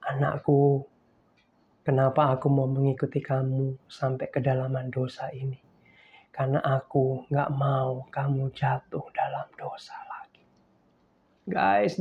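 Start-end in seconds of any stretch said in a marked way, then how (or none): 0.0-10.4 hushed, soft, whispered reply; tender voice of God. Retold or imitated. God whispering to his weeping child, tender hushed comfort. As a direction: whisper it like a loving father. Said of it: "Lalu Tuhan menjawab gini".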